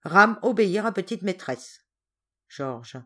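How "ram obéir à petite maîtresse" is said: firmer, louder statement of obedience; loud, even, unbudging reply; cold. Acted. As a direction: coolly stand your ground. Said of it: "Ram froidement".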